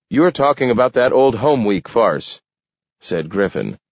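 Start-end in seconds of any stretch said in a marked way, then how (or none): 0.1-2.4 higher, worked-up objector; scornful alderman. A narrator's reading. Alderman mocking the Home Week scheme, scornful. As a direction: argue back with scorn.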